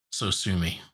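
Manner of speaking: retold deadpan comeback, level and unbothered; deadpan retort. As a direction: drop it dryly, without emphasis. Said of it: "deadpan response".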